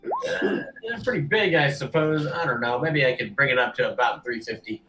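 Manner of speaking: lightly voiced patronising dealer; haggling orc merchant. Orc dealer weighing boar hides for the seller, mildly grudging. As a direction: open firmly, then hem and haw.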